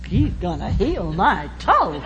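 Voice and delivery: slow, laughing scoff; mocking laugh. Ralph scoffing at Steve's healing, slow laughing mockery. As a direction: say it like the biggest joke. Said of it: "Like it was the biggest joke".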